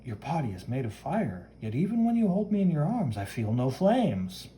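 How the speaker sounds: lightly acted, rising then slowing; wondering comic-book heroine. Woman marvels at the flaming hero, mildly wondering. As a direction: voice gentle puzzlement, lightly.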